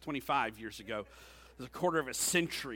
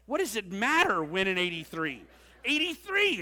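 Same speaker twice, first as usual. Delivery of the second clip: louder and much higher, fed up; exasperated; 5 semitones higher, 7 dB louder than usual. Retold or imitated. Pastor arguing with Julianne over a song's year, exasperated and loud. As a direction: throw your hands up, exasperated.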